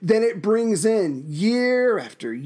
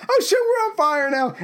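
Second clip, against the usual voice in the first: mock alarm; 10 semitones higher than usual. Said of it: "sailor realizing fire spread".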